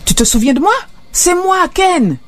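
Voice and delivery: put-on a joyful drunk pal calling out to his lost buddy; eager old friend. Old friend recognises narrator. (l'ami retrouvé appelle Doug, voix bien plus haute et ravie)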